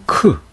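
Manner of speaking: 크 as a strongly aspirated k; classical chi. Shown as a demonstration. Teacher demonstrating classical chi, aspirated 크. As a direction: say 크 with a puff of air. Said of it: "이렇게 발음하게 되죠".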